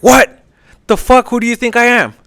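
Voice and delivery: high, indignant mock outrage; how dare you, imitated; outraged Caesar. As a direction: play the insulted emperor, pitched well up. Caesar outraged at low ransom.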